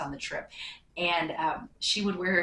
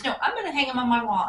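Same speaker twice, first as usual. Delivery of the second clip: high, loud and quick, bubbling over; excited insisting; 5 semitones higher, 7 dB louder, faster than usual. Retold or imitated. Waitress insisting she will hang the gift, fast excited. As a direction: rattle it off, too thrilled to listen.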